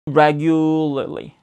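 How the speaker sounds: "regularly" drawn out on a long L; slow, careful "regu-llly"; slowed pronunciation demo. Shown as a demonstration. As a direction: stretch "regularly", tongue tip lightly released and reattached. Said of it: "끝만 살짝 뗐다 붙이는 느낌이에요".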